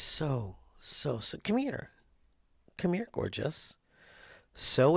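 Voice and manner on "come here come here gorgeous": high coaxing pet voice; calling the cat. Real, not acted. Owner interrupts her story to coax the cat, high.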